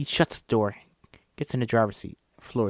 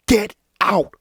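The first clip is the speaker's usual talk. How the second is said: panicked shout; 8 semitones higher, 8 dB louder than usual. Acted. Chris urging himself, panicked.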